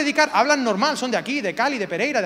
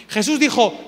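normal talking voice

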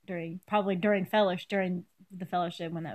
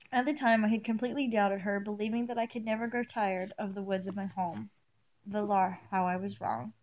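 measured first-person story reading; story narration; 4 dB quieter than usual. A narrator's reading. Reader sharing an elf's regretful memory, story narration. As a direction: read the tale aloud evenly. Reads fan fiction aloud.

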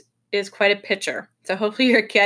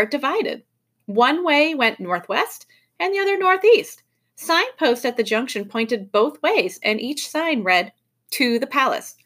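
story narration; 4 semitones higher than usual. A narrator's reading. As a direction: read it to children with measured, lifted phrasing. Reads the story aloud.

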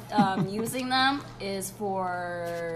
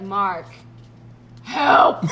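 panicked call for help; 11 dB louder than usual. Retold or imitated. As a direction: beg a friend for help on the phone. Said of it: "I was like".

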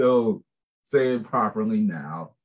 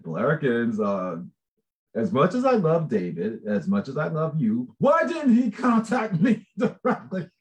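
sweet mock-pleading; 2 semitones higher than usual. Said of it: "I actually did say it like that".

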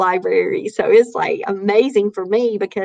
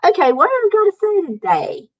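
self at the mic; 9 semitones higher, faster than usual. Retold or imitated. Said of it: "and I'd say".

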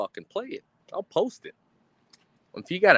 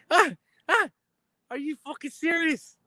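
mock scared; 9 semitones higher than usual. Mock scared reply to threat.

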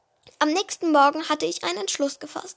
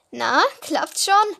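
mocking laugh; 5 dB louder, much slower than usual. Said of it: "lachte er uns aus".

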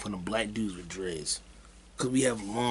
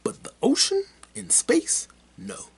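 hushed, spooky whisper; mock spooky whisper; 12 semitones higher, 3 dB louder than usual. Vlogger whispering about ocean monsters, mock spooky. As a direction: whisper it like a campfire scare.

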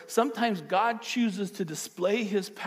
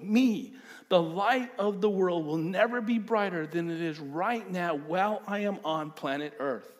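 fervent Jesus; 3 semitones higher than usual. Retold or imitated. Jesus explains himself, paraphrased.

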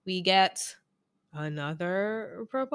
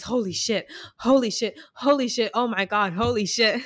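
rising, louder stunned exclamations; excited repeated swearing; 4 semitones higher, 4 dB louder than usual. Retold or imitated. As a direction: gasp it out again and again in disbelief. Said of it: "the only thing Shake can say over and over again".

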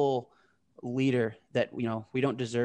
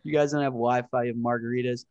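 exasperated rant; 5 dB louder than usual. Retold or imitated. To the hotel in the desert, an exasperated loud mock rant. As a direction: blast the hotel, fed up and laughing at it. Venting about hotel without Wi-Fi.

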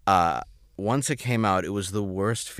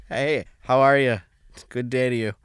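high, loud neighborly hello; mock cheery greeting; 6 semitones higher, 6 dB louder than usual. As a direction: call back an overdone good day. Returns neighbors' greeting, acted.

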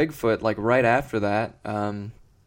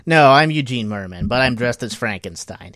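comedian announcing his costume; 2 semitones higher, 8 dB louder than usual. Retold or imitated. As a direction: belt it out, then insist on the correction. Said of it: "He's like".

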